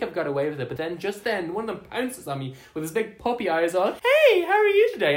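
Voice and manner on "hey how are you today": mock eager fundraiser. Imitating eager charity fundraiser.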